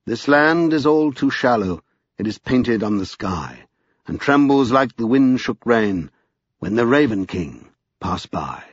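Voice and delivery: slow, measured verse reading; ballad recitation. A narrator's reading. Narrator quoting an old English ballad, measured recitation. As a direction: recite it slowly, line by line.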